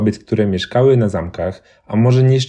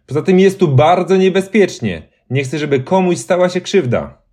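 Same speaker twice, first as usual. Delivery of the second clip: worried that someone gets hurt; white lady's warning; 8 semitones higher than usual. A narrator's reading. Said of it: "powiedziała biała dama".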